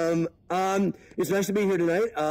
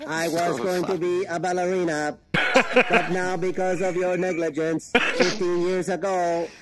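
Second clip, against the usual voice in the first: wheelchair-bound daughter. Acted. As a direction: deliver it word by word as the injured daughter. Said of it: "She's in an electric wheelchair".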